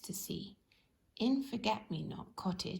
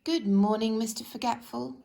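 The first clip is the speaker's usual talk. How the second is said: cheery shopkeeper greeting; 8 dB louder than usual. Acted. Postmistress greets loudly.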